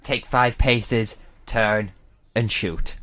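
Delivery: lightly voiced cowboy showdown; Wild West drawl. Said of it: "You're now in Wild West America".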